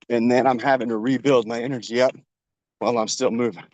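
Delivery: out of breath while running; panting between the words. Real, not acted. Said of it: "I was a little more out of breath".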